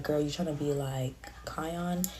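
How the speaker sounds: whispered, slow quote. Retold or imitated. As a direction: whisper it like gossip. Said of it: "she was like".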